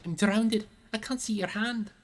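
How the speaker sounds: high, desperate sputtering; panicked gasping. A narrator's reading. Sam struggling in the water to Frodo, panicked gasp. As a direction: choke it out in panic. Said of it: "gasped Sam".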